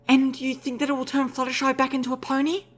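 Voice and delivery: a gentle mare, hoping; unicorn mare voice. Acted. Velvet Remedy's voice.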